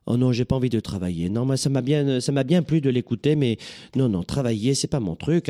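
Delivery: put-on a light southern French accent, the lazy student. Imitating a lazy listener who won't study, light southern French accent. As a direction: play the reluctant learner in a lightly sung Avignon accent. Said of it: "je reprends l'accent du sud de la France".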